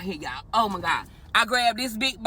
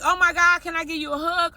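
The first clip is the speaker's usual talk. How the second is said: overjoyed; 5 semitones higher than usual. Retold or imitated. After receiving the hundred.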